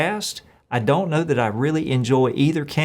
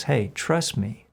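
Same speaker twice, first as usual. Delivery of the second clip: gentle reassurance; 2 semitones lower, 4 dB quieter than usual. Acted. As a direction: quietly comfort someone afraid. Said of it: "He just says".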